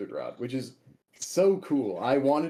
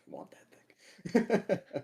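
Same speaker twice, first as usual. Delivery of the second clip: laughing; 7 semitones higher, much slower than usual. Retold or imitated. Retelling own wish, laughing.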